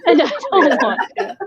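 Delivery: said through a real laugh; giggling as she echoes herself. Real, not acted. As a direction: laugh your way through the repeat. Repeats the line while laughing.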